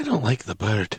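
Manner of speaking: hushed, whispering voice. Speaking in character, warning Rathgar about the bird: whispering. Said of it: "He whispers to Rathgar".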